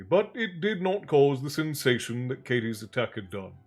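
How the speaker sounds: measured audiobook-style reading; story narration. A narrator's reading. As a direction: read the story aloud with deliberate phrasing. Reads novel aloud.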